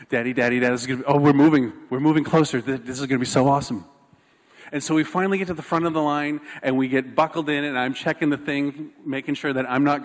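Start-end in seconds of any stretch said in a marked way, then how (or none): 0.1-3.9 lightly imitated child tumbling over the words; retold excitement. Daughter as the line moves, mildly hammed-up excitement. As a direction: break off and burst in with the news. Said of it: "like, so excited".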